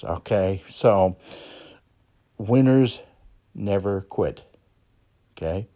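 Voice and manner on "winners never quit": motto. Real, not acted. Host drilling a slogan into listeners, loud. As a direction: hammer home the slogan.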